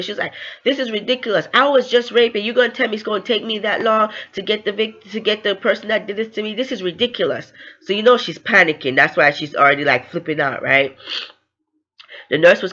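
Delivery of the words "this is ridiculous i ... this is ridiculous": higher-pitched mock indignation; retold fuming. Victim protesting the long wait to the nurse, mildly fuming. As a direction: protest in mild outrage, pitch raised. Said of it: "So she was fuming".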